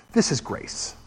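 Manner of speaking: breathy whispered declaration. Acted. Preacher telling the congregation what grace is, whispered. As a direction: whisper it like a secret. Preacher hushes on the key line.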